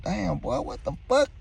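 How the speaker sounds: high, soft shocked disbelief; shocked exclamation. Retold or imitated. Seeing his skinny friend again, a high stunned exclamation. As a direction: gasp it out, stunned by how thin he looks.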